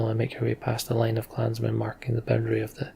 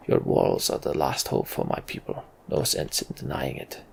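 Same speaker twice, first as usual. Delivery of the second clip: gruff Varl chieftain. Acted. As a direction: speak like a weary old giant. Varl Hakon voiced in dialogue.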